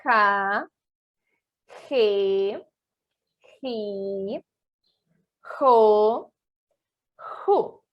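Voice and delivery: "Ra, re, ri, ro, ru" rasped from the throat like a strong H; throaty, drawn-out "Ra, re, ri, ro, ru"; Spanish J syllables. Shown as a demonstration. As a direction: model "Ra, re, ri, ro, ru" one by one for repetition. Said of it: "Vou mais uma vez".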